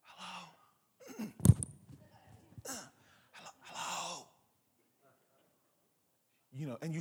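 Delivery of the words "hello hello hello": a much softer, hesitant hello into the dark; timid call. Retold or imitated. Teen alone at night, calling out timidly. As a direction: call out, scared of the answer.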